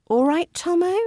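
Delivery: bright, high, playful call to a friend; affectionate nickname. Shown as a demonstration. Teacher greeting a friend by his nickname, high and playful. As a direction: greet a mate by his pet name, lifted up high. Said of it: "as an affectionate nickname".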